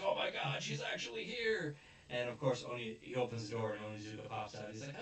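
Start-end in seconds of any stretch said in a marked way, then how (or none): 0.1-1.8 breathless, then high and giddy; starstruck squeal. Retold or imitated. Cop finds the TV girl at his door, starstruck squeal. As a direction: squeal like a fan meeting an idol. Cop sees idol arrive.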